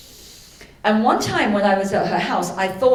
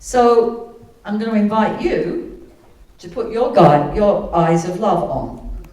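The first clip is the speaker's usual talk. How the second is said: guided meditation. Acted. Guiding listeners through a forgiveness exercise, calm meditation voice. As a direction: lead the room gently into calm.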